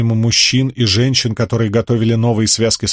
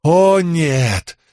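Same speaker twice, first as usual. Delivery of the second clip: испуганный вскрик; 6 semitones higher than usual. A narrator's reading. Верёвка натягивается.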